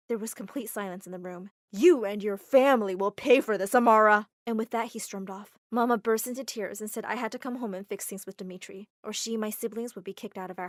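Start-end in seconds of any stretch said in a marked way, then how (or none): 1.7-4.3 menacing threat. Acted. Dimitri threatens before storming off.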